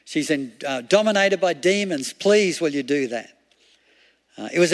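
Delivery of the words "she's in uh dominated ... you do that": mild retold yelling. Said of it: "she just keeps on yelling out".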